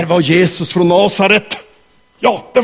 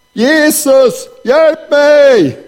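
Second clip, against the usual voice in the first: high, loud cry to Jesus; a children's audience shouting with the teller, high and loud; shouting for help; 7 semitones higher, 3 dB louder, much slower than usual. Acted. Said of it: "ni hjälpa mig att skrika".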